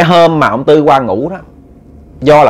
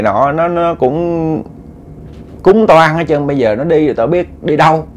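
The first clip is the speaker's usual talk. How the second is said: a touch of imitated tearful pleading, slightly higher; mock crying spirit; 3 semitones higher than usual. Spirit begging not to be sent away, mildly imitated crying. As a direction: retell the spirit's weepy lament, understated. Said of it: "Nó khóc quá trời".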